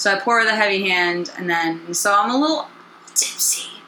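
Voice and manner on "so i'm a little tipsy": put-on soft, hushed, tipsy whisper on one word. Admitting to listeners about mixing strong drinks: whispering. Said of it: "that's a whisper".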